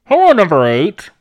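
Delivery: cold announcer voice; flat robotic host greeting; producer voice. Retold or imitated. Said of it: "the producer going".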